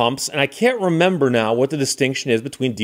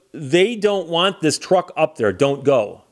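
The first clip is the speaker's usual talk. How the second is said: insistent warning; slower than usual. Retold or imitated. Local man warns an outsider off Copper Harbor, insistent. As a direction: imitate a stubborn local laying down the law. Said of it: "he keeps insisting".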